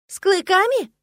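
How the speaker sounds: high, loud gasp of surprise; изумлённый ах. A narrator's reading. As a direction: gasp it out in shocked disbelief. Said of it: "ахнула я". (ахнуть от изумления, высоко и громко)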